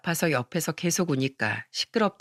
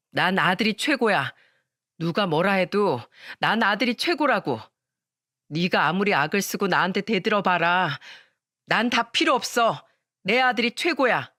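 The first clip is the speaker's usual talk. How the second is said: cold scolding mother; 2 semitones higher than usual. Acted. Mother coldly blaming her injured daughter, mild harshness. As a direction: hold the blame on her, coldly.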